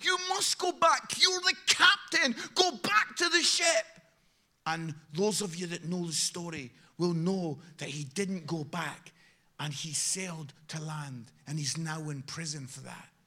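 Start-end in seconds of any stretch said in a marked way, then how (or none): 0.0-3.8 high, outraged, indignant scream. Retelling how the Coast Guard screamed at the captain: acting out an indignant scream. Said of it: "screaming in indignation".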